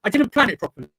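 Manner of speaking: glitchy, cutting-out mic audio; scrambled voice. Real, not acted. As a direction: voice breaking up over a lagging connection. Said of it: "your mic is cutting out".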